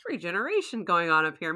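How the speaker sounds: distracted, airy high voice; wide-eyed, easily distracted; Dory moment. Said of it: "He has a total Dory moment".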